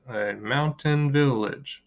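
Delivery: A mountain village split a-moun-tain-vil-lage; A mountain village in five separated beats; syllable by syllable. Shown as a demonstration. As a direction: say A mountain village slowly, one beat per syllable. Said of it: "Five syllables".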